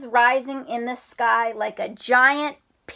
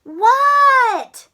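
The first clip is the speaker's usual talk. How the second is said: Froggy What; 13 semitones higher, 8 dB louder than usual. Acted. Froggy voiced.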